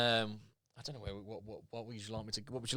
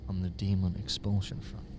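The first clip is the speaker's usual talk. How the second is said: too quiet; 7 semitones lower, 7 dB quieter than usual. Acted.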